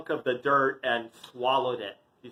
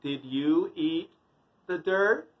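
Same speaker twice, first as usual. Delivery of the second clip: slow, spaced-out question; stern questioning mother. Acted. Mother questions toddler about eating dirt, slow measured interrogation. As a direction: pause between phrases, rising to the end.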